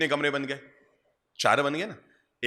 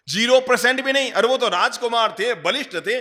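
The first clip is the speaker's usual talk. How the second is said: high, raised preaching voice; emphatic denial; 7 semitones higher, 4 dB louder than usual. Real, not acted. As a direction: refute it forcefully, pitched up and louder. Emphatically rejects his own question. (ऊँची आवाज़ में ज़ोरदार खंडन)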